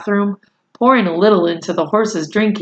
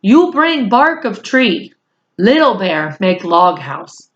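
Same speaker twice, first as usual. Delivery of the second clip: Little Bear voice. Acted. Little Bear gives orders.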